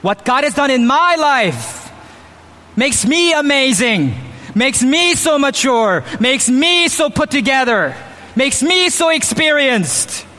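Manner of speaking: each "me" hit hard, pleased with yourself; mock self-praise. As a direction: smugly list your own virtues. Mocking self-praise list.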